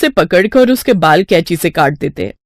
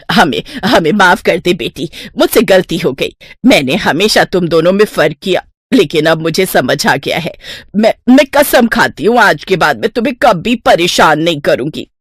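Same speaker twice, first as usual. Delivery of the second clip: pleading, contrite apology; repentant stepmother; 2 semitones lower than usual. Acted. Stepmother asking Rupali's pardon, contrite plea. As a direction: beg her forgiveness and swear to change.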